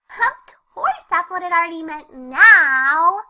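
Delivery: cheerful exclaim. Acted.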